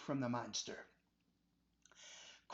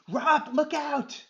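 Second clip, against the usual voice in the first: high, loud, slow shout; yelled warning; 10 semitones higher, 10 dB louder, slower than usual. Acted. Adam warning Robert as the monster strikes, yelling. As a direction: scream the warning.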